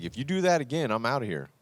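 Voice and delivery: a hint of a whiny threatening partner; passive-aggressive threat. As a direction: lightly imitate a nagging ultimatum. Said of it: "we passively aggressively kind of hint around".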